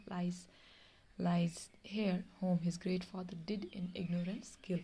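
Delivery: slow, measured reading of a tale; story reading. Acted. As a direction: read each word out slowly for the class. Teacher reads story aloud. (धीमी आवाज़ में कहानी पढ़ना)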